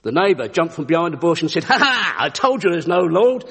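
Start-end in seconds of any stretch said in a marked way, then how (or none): 1.6-3.4 gloating. Acted. Neighbour springs out to gloat.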